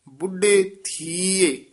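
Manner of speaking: ਥੀਏ said with a short sihari sound. Shown as a demonstration. Teacher correcting pronunciation for students, short vowel in ਥੀਏ. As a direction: keep ਥੀਏ short, voice on the iri. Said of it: "ਇਸ ਨੂੰ ਥੀਏ ਨਹੀਂ ਕਹਿ ਦੇਣਾ".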